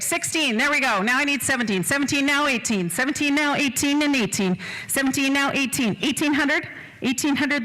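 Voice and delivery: quick rolling auctioneer chant; auctioneer bid calling. Acted. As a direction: rattle off the bids to keep the room going.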